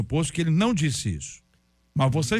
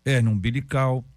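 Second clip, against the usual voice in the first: usual speaking voice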